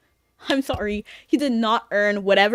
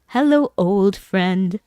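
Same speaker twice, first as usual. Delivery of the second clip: mock-grand greeting; 4 dB louder, slower than usual. Greeting returning chat viewer.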